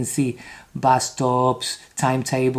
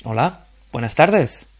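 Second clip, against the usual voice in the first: model reading. Shown as a demonstration. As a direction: clear model reading, falling on tardes. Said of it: "I read and you repeat".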